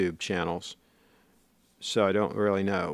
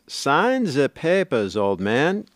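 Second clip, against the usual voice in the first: Cheech and Chong bit; 3 semitones higher, slower than usual. Retold or imitated. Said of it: "Cheech and Chong does".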